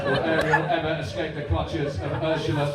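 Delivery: mild hyped promo read; football voice promo. Shown as a demonstration. Presenter promoting a cartoon, football voice. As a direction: plug a cartoon as if it's a derby. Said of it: "hear this now".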